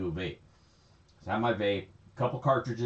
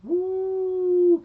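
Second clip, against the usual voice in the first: high-pitched shocked woo, much higher and louder; 7 dB louder than usual. Real, not acted. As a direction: yelp of disbelief at the news.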